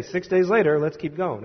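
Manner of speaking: "Six days later" tossed off and dropped, then moving on; careless skim. Shown as a demonstration. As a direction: brush past "Six days later, let's keep going" like a reader who doesn't care. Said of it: "you don't want to just say".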